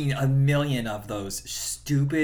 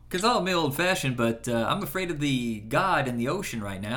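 put-on old-fashioned guy. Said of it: "the old-fashioned guy that Thomas Lennon would do".

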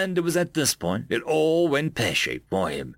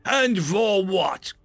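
hooded stranger; 5 semitones higher than usual. Acted. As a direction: pronounce the sentence, rising to anger. Hooded figure condemns Rotak.

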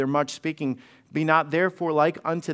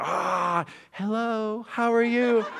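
sugary, higher, laughing phone voice; sweet phone voice; 5 semitones higher, slower than usual. Retold or imitated. Mom answering phone after scolding, sudden sugary voice. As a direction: switch to a sweet company voice. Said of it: "she'd be like".

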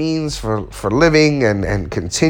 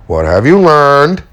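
slow, louder pointed question with stress on "you"; fiance's pointed question; 2 semitones higher, 4 dB louder, slower than usual. Retold or imitated. Fiance asking him what he learned, pointed and slow. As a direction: lean on "you" like a partner asking. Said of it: "As my fiance puts it a lot".

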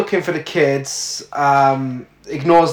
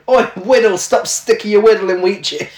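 put-on Cockney accent; 4 semitones higher than usual. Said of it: "in a Cockney accent".

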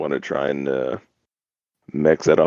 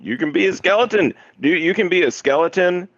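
higher, delighted outburst; excited; 11 semitones higher than usual. Real, not acted. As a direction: gush about it with delight. Excited about skeleton option.

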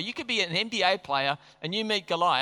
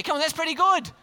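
high, louder comic sales pitch; mock-exasperated urging; 8 semitones higher, 4 dB louder than usual. Preacher goading a hard audience with the king's offer, mock-exasperated urging. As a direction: playfully plead with a hard crowd, pitched up.

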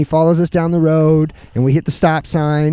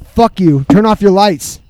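angry yell; 3 semitones higher, 4 dB louder, slower than usual. Retold or imitated. Drunk neighbour yells back at cop.

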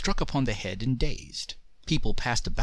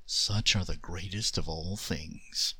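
soft, slow, lower genie; 5 semitones lower, 5 dB quieter than usual. Acted. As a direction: speak it softly, a gentle genie. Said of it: "said the Jinn softly".

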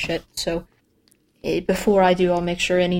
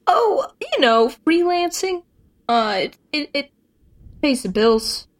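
evasive high voice; 7 semitones higher than usual. Real, not acted. Evasive answer about money.

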